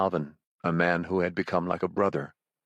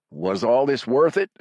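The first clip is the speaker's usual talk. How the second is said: higher, louder desperate question; shouting; 5 semitones higher, 6 dB louder than usual. Acted. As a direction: shout it up at him to stall. Raven stalling the villain.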